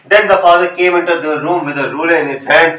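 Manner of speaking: slow, measured reading of a story; slow classroom read-aloud. Acted. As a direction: read the line out slowly, word by word. Reads the story text aloud.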